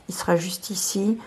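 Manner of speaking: soft whispered aside; murmured aside while tidying the cards. Real, not acted. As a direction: drop to a breathy whisper for yourself. Aside while putting deck away.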